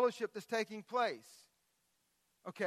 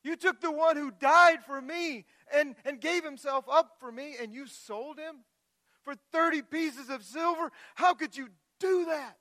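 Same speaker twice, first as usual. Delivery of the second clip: higher, louder, indignant; preacher voicing his anger at Judas, higher and louder; angry outcry; 7 semitones higher, 7 dB louder than usual. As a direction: confront them, outraged and hurt. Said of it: "I was getting angry".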